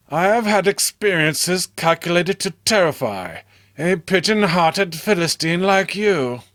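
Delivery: a hint of contempt for the warning; scornful Robert. Robert rebuking his friend John, lightly scornful.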